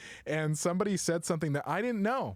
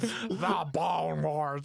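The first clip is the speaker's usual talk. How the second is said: slow grand title; much slower than usual. Acted.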